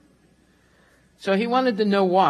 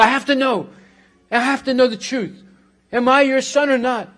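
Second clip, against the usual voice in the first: raised, insistent voice, higher and louder; urgent louder demand; 5 semitones higher, 6 dB louder than usual. Acted. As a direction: press her hard for the truth. Son confronts mother demanding truth.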